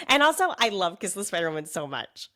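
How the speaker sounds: a little raspy from a cold; raspy cold voice, slightly rough. Real, not acted. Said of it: "my clarion voice is feeling a little raspy today".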